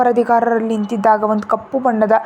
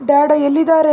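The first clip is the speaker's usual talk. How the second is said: put-on higher, louder teary child asking for dad; a touch of childish tears; crying child; 4 semitones higher, 3 dB louder than usual. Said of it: "ಅಂತ ಅಳ್ತಾ ಕೇಳ್ದ".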